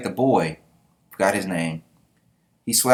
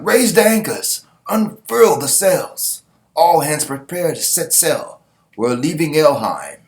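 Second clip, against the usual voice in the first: high, raised calling voice; ship captain's orders; 6 semitones higher, 5 dB louder than usual. Acted. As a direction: call commands across the deck to the crew. Captain shouting orders to crew.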